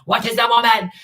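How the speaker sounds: high, loud mimicked question; mock interview question.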